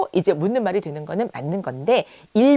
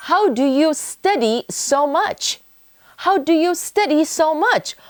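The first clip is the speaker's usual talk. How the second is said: high, slow, wondering question; be blown away by how much they study; amazed; 7 semitones higher, much slower than usual. Shown as a demonstration. Teacher demonstrates asking a student in amazement. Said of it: "해서 감탄하듯이 물어볼 수가 있는 거죠".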